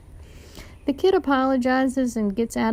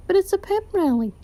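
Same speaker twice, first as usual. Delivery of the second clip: about to cry; 8 semitones higher, faster than usual. A narrator's reading. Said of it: "lip quivering".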